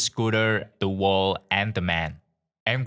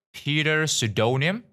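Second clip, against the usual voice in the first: higher, rising call of a name; nurse calling out; 7 semitones higher than usual. A narrator's reading. Nurse calls the waiting room, a lightly voiced rising call.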